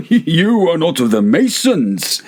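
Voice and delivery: put-on high, sneering drunk voice; drunken Fortunato. A narrator's reading. Fortunato scoffing at Montresor, high drunken sneer.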